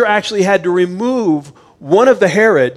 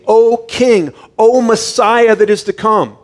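higher, louder pleading call to a king; mock cry out; 4 semitones higher, 4 dB louder than usual. Blind men crying out to Jesus, a raised plea. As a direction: lift the voice as if crying out to the Messiah. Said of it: "They're screaming out to Jesus".

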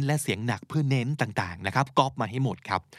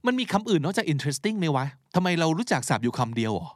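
higher-pitched, exasperated questioning of oneself; mock self-scolding; 5 semitones higher than usual. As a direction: nag yourself in playful disbelief. Acting out self-critique on playback. (แกล้งบ่นตัวเองเสียงสูง)

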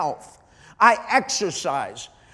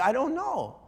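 tearful; 5 dB quieter than usual. Retold or imitated. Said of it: "you'd see me crying".

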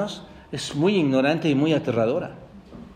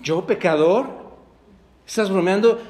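lightly scoffing disbelief; mocking. People today scoffing at being called sinners, mildly mocking. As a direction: brush it off with a mock-incredulous question. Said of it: "la gente se burla".

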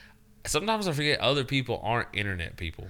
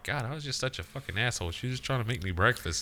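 softer, rueful self-blame; regretful; 5 dB quieter than usual. Retold or imitated. Man recalls regret over his ex-wife, quietly rueful. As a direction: mutter it to yourself in regret. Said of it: "I'm like".

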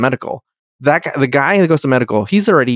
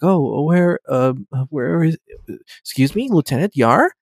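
confused; 3 semitones higher than usual. Retold or imitated. Data looks for Tasha in her room, acted confusion. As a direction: feel around uncertainly, imitating a lost visitor. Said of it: "he's confused".

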